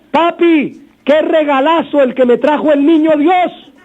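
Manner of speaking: the cheerful son showing his father his gift, thrilled; delighted child. Acted. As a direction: gush over the gift like an overjoyed kid. Happy child shows dung gift.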